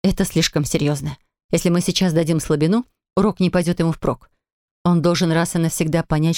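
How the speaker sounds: mother lectures father about discipline; lightly voiced stern mother.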